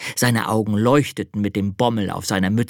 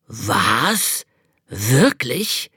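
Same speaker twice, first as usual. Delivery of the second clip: put-on old hare whispering in amazement; whispered disbelief; amazed whisper; much slower than usual. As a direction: breathe it out, astonished. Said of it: "staunte der alte Hase".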